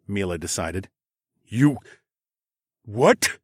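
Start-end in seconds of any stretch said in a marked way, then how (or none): 1.4-3.4 stunned disbelief. Acted. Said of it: "Gunther gaped at his wife".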